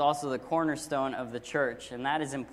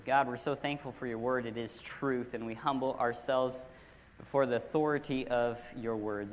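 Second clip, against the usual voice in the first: earnest, measured prayer, a little lower; public prayer; 3 semitones lower than usual. Real, not acted. Pastor praying before teaching God's word, measured prayer.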